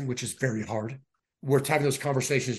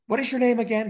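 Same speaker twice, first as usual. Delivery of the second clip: stunned disbelief; 9 semitones higher, 4 dB louder, faster than usual. Retold or imitated. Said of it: "I freeze and I look over at my wife".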